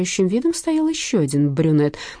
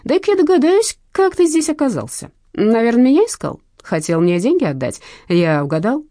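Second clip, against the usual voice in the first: sarcastic taunt; 4 semitones higher, 5 dB louder than usual. Acted. Thug taunting debtor.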